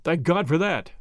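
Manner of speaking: ordinary delivery, nothing marked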